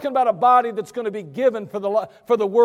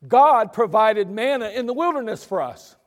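mock crowd; 4 dB louder than usual. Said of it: "They say".

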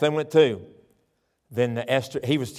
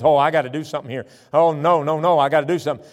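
fast, louder, frantic babble; villain desperate to save himself; panicked Haman; 6 dB louder, faster than usual. Acted. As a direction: scramble in panic. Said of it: "Haman goes and says".

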